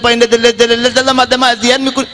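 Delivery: pleading customer voice. Acted. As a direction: draw out the dalaleh refrain like a desperate simpleton. Customer explains to pharmacist.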